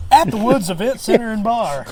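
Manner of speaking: loud, laughing promo line; laughing announcer. Pretend. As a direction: announce it while cracking up. Ad parody, laughing.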